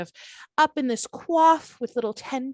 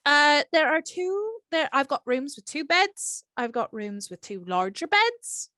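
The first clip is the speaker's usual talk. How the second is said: put-on Irish accent. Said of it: "sounding like Aisling Bea".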